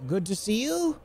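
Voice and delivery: high-voiced teacher addressing class; professor. Professor walks in to address third years, high teacher voice. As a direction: call the class to order, high and drawn out. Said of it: "the professor walks in".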